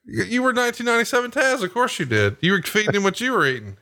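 hammed-up playful jab at a buddy; mock exasperated retort. Host ribbing friend about his steroid-fed dog, high hammed-up retort. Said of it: "I'm like".

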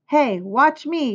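high, slow show-off call; storybook boy yelling for attention. A narrator's reading.

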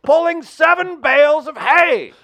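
put-on old-timey builder voice. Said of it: "I'm interested in this voice".

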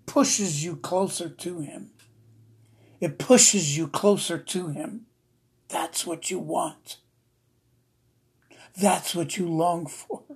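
slow, deeply moved preaching; slow and heartfelt, overcome with feeling; real emotion. Real, not acted. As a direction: let each phrase land slowly, moved by it. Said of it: "I'm sorry I'm so emotional".

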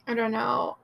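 fighting tears mid-sentence; holding back tears. Real, not acted. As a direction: voice catching, close to crying. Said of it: "I'm trying not to cry".

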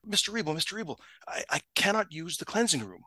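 retold flustered employee reporting a problem; imitated panic. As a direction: act out a mildly panicked plea to the boss. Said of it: "running up to my desk in a panic".

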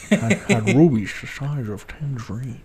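put-on slow, slurred Scottish accent; Sean Connery. Host mimicking an actor's line, slow Scottish accent. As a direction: drag it out in a Scottish film-star imitation. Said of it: "That's what Sean Connery".

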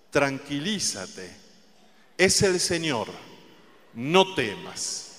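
confident, smiling reassurance; slow, assured and kind; with authority and a smile. Shown as a demonstration. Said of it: "pero se lo diga con autoridad, con una sonrisa y con confianza".

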